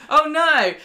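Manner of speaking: loud, high mock gasp of dismay. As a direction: squeal it like a caught villain. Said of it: "she's like".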